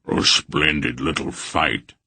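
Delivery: a lightly voiced big warrior, slow and pleased; hearty warrior. A narrator's reading. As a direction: relish the fight. Barak's voice.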